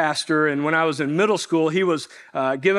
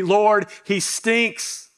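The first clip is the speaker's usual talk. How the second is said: blunt complaint; 3 semitones higher, much slower than usual. Retold or imitated. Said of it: "It really should be".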